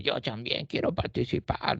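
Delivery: a small voice from the back; little voice. Retold or imitated. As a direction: speak up timidly as a little old beggar. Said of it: "escuchan una vocecita".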